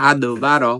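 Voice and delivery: আদ with the দ bounced out; qalqala bounce. Shown as a demonstration. Teacher demonstrating qalqala on আদ. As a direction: jolt the দ of আদ বারো. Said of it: "ধাক্কা দিয়ে পড়তে হবে".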